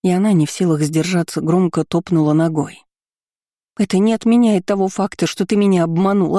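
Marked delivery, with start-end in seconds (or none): 3.8-5.3 angry outburst. Acted. Quarrel, accusing him. 5.3-6.4 rising fury on "обманул"; angry accusation. Acted. Quarrel, accusing him.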